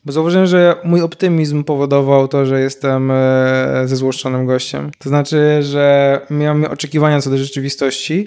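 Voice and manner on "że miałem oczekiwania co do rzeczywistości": normal talking voice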